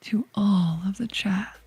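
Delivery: slow, breathy seductive whisper. Acted. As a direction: whisper it like a sultry vampire. Seductive whisper greeting to chat.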